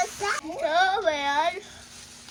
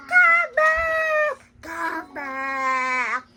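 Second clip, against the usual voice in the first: shouting; 10 dB louder, much slower than usual. Acted. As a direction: yell across the field for him to return. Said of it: "That's why his family shouted".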